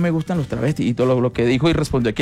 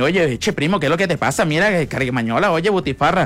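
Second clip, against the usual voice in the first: exaggerated, stereotyped Colombian costeño coastal accent. Showing how everyone thinks Colombian coastal people talk, stereotyped Colombian coastal accent. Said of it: "que todo el mundo cree que los costeños hablan y empiezan a decir".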